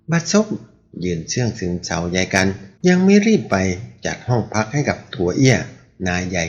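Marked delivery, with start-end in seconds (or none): 0.1-0.5 sudden high, sharp angry snarl; growled curse. A narrator's reading. A ruffian snarls at the inn servant in anger. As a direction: spit the curse out in a rage. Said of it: "เสียงขู่คำรามดังว่า".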